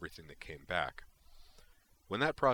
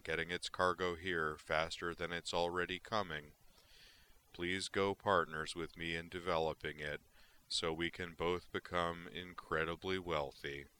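sarcastic excitement. Acted. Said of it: "Sarcastic excitement".

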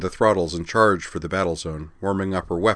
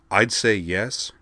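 slow, dry understatement; deadpan it slowly; 2 semitones higher, slower than usual. Acted. Officer answering dryly under fire, slow deadpan. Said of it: "Rokar finished dryly".

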